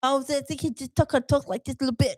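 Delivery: lightly voiced boxer impression; a hint of lisping boxer chatter; Mike Tyson. Co-host trying a boxer for host, light impression. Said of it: "All right, what about Mike Tyson?".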